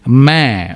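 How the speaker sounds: మే said with a nasal vowel; మే నాసికంగా పలకండి. Shown as a demonstration. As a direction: say మే through the nose. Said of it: "మే ముక్కుతో వస్తుంది".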